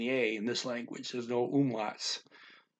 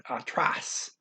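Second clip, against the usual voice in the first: "atrás" with the weight on "trás"; teacher's model of "atrás", accented final syllable; last syllable stressed. Shown as a demonstration. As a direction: say "atrás" as ah-TRAHS. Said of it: "forcing you to say the last syllable".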